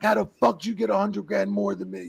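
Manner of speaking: fired up, high-pitched demand; retold heated challenge; Show. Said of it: "he's fired up hard".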